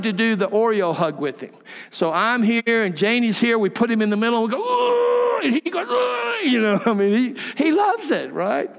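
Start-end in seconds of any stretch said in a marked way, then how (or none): 4.6-5.4 high-pitched drawn-out "oooh"; squealed hug "ooh". Retold or imitated. Grandparents act out the group hug squeeze. 5.9-6.5 high, drawn-out "oooh"; imitated child's hug squeal. Grandson's answering squeal in the hug.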